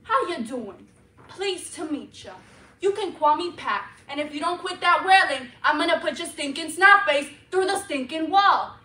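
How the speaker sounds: sweet greeting turning to loud threat; growing threat. Retold or imitated. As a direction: start nice, end snarling. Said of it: "I said".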